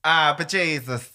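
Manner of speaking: light mock Irish accent. Shown as a demonstration. Presenting number five of top Irish accents, mock Irish accent. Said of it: "Irish accents".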